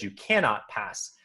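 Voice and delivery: lightly voiced Gandalf, slow, stress on cannot; a hint of Gandalf stating a fact, cannot leaned on; Gandalf statement. Comparing book wording for friends, understated slow Gandalf. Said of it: "slight wording change".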